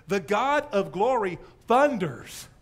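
loud, slow, grand proclamation; thundering volume. Acted. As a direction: let each word boom out slowly. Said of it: "volume ... is even more off the chart".

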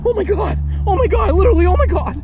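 high, loud, thrilled cries; excited shouting. Real, not acted. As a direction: yell in disbelief at the find. Finding a cross in a tree.

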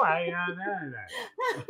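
put-on Southern accent. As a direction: mimic a Southern greeting. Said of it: "couldn't understand that southern accent".

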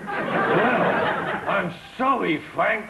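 laughing weak try at Peggy; half-hearted Peggy Mitchell; Peggy Mitchell attempt. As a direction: copy the Cockney line through a laugh. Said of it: "a key phrase with her".

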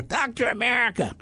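guru calling him. Retold or imitated. Guru summoning his disciple by name, high call.

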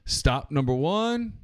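drawn-out conductor call; slow announcer kid. Retold or imitated. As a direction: call the stop slowly like a conductor. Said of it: "and he says".

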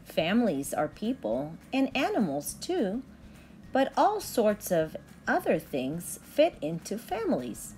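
lilting sing-song storybook read; gentle picture-book reading voice; reading to children. Acted. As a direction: read it like bedtime rhymes for little kids. Reads picture book to kids.

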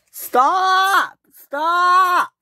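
very high, loud frantic stop; frantic shout. Acted. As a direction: yell to halt him before disaster. Warning Fergus on the bridge.

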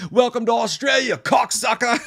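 high gleeful shouted villain line; villain one-liner. Retold or imitated. Killer taunting a driver, shouted high and gleeful. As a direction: yell it while running them over. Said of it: "the film's best one-liner".

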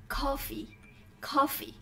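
"coffee" with a short, light final ee sound. Shown as a demonstration. Teacher models the answer word for students, short final y. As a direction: say "coffee" clearly, ending on a short y. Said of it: "âm y ngắn các bạn ạ".

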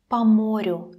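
"по морю" said with an emphatic "pa". Shown as a demonstration. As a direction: clear a in "по морю". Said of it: "You hear how I'm pronounce it".

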